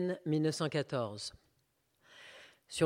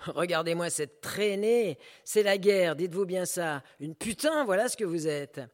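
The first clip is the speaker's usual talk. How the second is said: mocking jeer; 3 semitones higher, 5 dB louder than usual. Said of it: "Le voyou".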